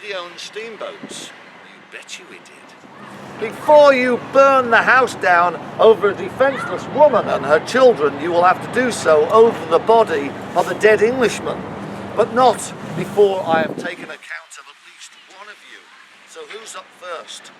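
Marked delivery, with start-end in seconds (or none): 3.4-15.1 loud, proud challenge to a mob; defiant threat. Acted. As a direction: stand your ground and dare them. Steamboat Thompson defies the mob.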